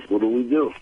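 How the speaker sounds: ordinary talk, nothing marked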